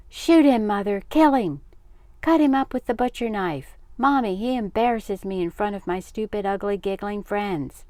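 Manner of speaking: high, loud, indignant outburst; outraged sister. A narrator's reading. Sister complaining to mother about brother, outraged. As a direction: wail for drastic justice.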